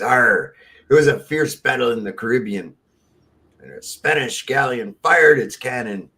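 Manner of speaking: lightly voiced pirate with a big arr. Pirate explains his lost leg, lightly hammed-up pirate voice. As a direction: tell it like an old sea tale. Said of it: "I'm a pirate".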